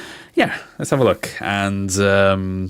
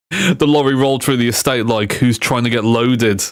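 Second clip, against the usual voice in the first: slightly raised, lightly voiced roadman; roadman style; 2 semitones higher than usual. Streamer reading lorry pun to viewers, light roadman impression. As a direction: read it with a hint of roadman. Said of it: "do my best Roadman style".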